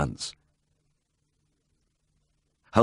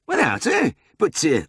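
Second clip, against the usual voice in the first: stunned disbelief; 11 semitones higher, 3 dB louder than usual. A narrator's reading. Drover stunned by refusal.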